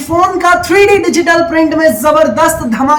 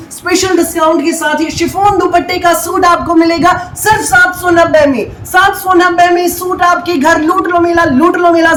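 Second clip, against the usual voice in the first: higher, excited bazaar hawker; hard sell ad; 4 semitones higher than usual. Acted. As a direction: call out the bargain like a stall. Shouting the discount. (बाज़ार वाले की तरह ऊँची पुकार)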